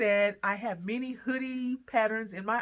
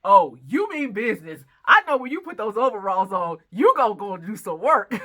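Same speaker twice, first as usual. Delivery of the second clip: imitating husband; 9 dB louder than usual. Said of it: "my husband goes".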